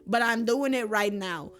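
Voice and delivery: insistent retold friend. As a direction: put your foot down for a friend. Friend insisting on doing the favor.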